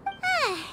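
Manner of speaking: high little sigh; guilty sigh. Acted. Guide feeling guilty about the gifts, sighing. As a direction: let out a small sigh.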